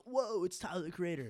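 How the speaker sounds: high, loud starstruck "Whoa"; excited cartoon shout. A cartoon character spotting a celebrity, loud and excited. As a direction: blurt it out like a starstruck fan. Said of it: "Not like Rigby's like".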